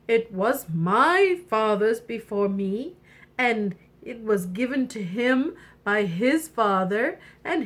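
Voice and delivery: a hint of a proud storybook king; solemn king father. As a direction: present a family treasure with mild gravity. King presents the heirloom.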